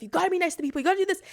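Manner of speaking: self-pressuring. Retold or imitated. Pressuring herself, inner voice.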